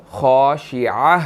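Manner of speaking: خاشعہ slowly, with the final sound clearly produced; ending sound. Shown as a demonstration. Teacher shows the word's ending, slow and clear. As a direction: let the end of خاشعہ ring out. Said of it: "اینڈ پر یہ sound produce ہوگی".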